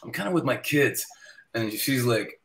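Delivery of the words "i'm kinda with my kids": gently begging off; mild polite refusal. Retold or imitated. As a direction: turn them down lightly, casually. First, mild excuse to a fan.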